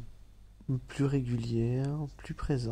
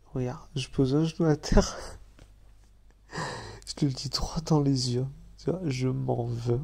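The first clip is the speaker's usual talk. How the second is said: earnest declaration; 5 dB louder than usual. Real, not acted. Genou à terre, excuse théâtrale.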